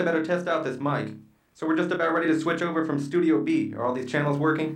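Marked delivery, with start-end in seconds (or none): 1.6-4.8 talking into a tin can; thin, tinny can-phone sound. Acted. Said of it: "You sound like you're talking into a tin can".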